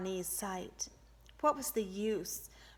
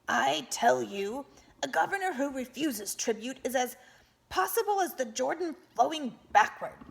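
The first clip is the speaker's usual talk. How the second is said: declaring; 5 semitones higher, 6 dB louder than usual. A narrator's reading. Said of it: "Bani heard one of them declare".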